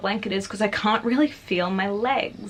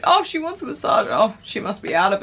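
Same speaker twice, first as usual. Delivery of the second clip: mocking nurses. Retold nurses mocking a dazed patient, laughing. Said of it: "they laugh at me".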